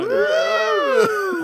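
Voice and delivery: very high loud cheering woo; excited whoop. Real, not acted. Cheering the segment title, a loud high whoop. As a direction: whoop like a game-show crowd.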